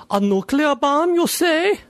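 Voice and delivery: police chief voice. Acted. Police chief hears of bomb.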